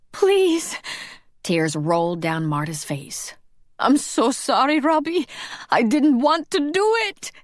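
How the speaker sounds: high, tearful plea; tearful pleading. A narrator's reading. Marta pleading with Robbie, in tears. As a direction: beg through tears.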